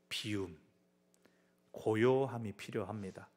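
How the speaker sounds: soft hushed emphasis; quiet. Acted. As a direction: drop into stillness. Contrast with noise, quiet.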